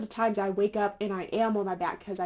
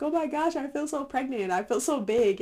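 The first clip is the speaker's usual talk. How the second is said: higher, excited gush; mock dramatic; 5 semitones higher than usual. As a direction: gush dramatically about feeling huge. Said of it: "so I'm just like".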